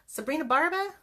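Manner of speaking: high, loud called-out name; announcing the winner. Retold or imitated. The host announcing the drawing winner, high and loud. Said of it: "and she says".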